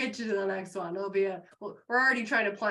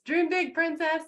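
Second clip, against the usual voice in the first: higher, louder playful sign-off; signature sign-off; 9 semitones higher, 6 dB louder than usual. Acted. Coach ending the talk with her catchphrase, playful and high. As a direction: toss it out like a catchphrase. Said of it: "I always end with".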